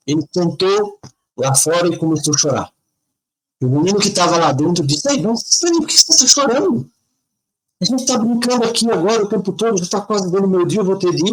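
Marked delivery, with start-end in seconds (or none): 5.1-11.3 put-on child's voice. Boy inside asks why crying.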